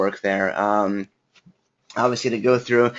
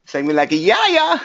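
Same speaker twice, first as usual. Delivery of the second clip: laughing joke; 10 semitones higher, 4 dB louder than usual. Real, not acted. Joking about viewer's name.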